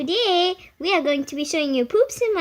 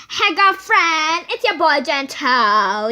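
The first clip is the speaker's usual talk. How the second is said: cool guy voice; 2 semitones lower, 5 dB louder, slower than usual. Pretend. Fake phone greeting, slow.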